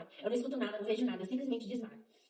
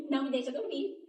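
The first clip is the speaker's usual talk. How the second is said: laughing; 4 semitones higher than usual. Real, not acted. Laughing about alarm waking her.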